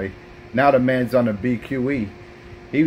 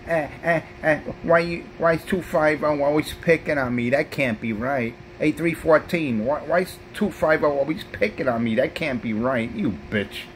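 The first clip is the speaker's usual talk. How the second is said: mock whiny Pedro; 4 semitones higher than usual. Mocking Pedro's whining complaint.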